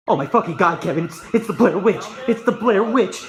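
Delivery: mock panic laughing. Pretend Blair Witch panic, laughing.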